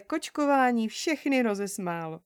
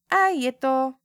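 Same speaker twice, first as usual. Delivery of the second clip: contented; 3 semitones higher, 7 dB louder, slower than usual. Acted. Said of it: "prohlásila spokojeně".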